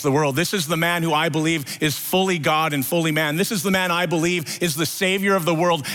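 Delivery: lightly acted grief, climbing; a hint of a broken disciple; building anguish. Peter grieving after Jesus' death.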